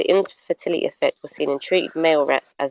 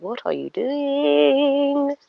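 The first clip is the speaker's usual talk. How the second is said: incredulous; 8 semitones higher, much slower than usual. Retold or imitated. Scolding herself, drawn out.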